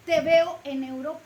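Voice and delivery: loud parting call. Acted. Missionary calling out to his colleague, loud. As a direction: call it out across the way.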